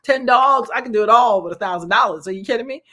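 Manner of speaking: excited lady. Retold or imitated. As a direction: play the thrilled tamale seller counting her luck. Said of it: "She's like".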